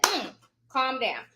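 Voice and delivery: slow, level reassurance after a panic; slow down and settle them; retold calm voice. Retold reply to panicking mother.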